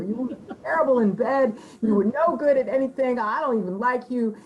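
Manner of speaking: laughing mock taunts; mock insults. Women's war taunts at men, laughing mockery. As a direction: tease him with a laugh. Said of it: "spout poetry about how bad you were".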